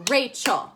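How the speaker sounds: Rachel in two crisp beats, Ra-chel; clapped-out syllables. Shown as a demonstration. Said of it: "I like to clap my words".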